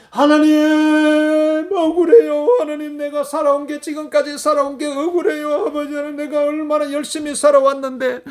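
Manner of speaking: high, wailing complaint to God, opening on a long loud call; acted lamenting prayer, insistent and singsong; aggrieved crying out. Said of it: "억울하다고 해봐야".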